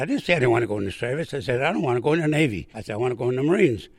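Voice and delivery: loud, fast insistent protest; heated protest. Retold or imitated. Recruit arguing with police at induction, loud fast protest. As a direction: insist hard, rushing the words.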